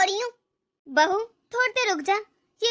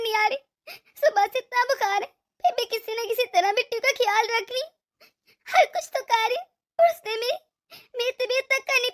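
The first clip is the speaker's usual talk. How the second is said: tearful complaint. Acted. Sick mother-in-law cries alone.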